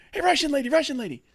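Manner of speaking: put-on excited kid calling up to a window, high and loud; high-pitched boy. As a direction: yell like a small boy. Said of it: "a relatively high-pitched voice".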